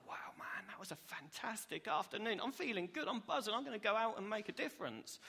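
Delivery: breathless wow rising into eager resolve; buzzing enthusiasm. Acted. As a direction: act out someone buzzing after great company. Imagined friend buzzing after a visit.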